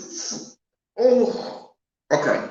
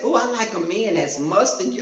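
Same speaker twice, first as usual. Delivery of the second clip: imitating a queen; 4 semitones higher than usual. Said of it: "gay men said".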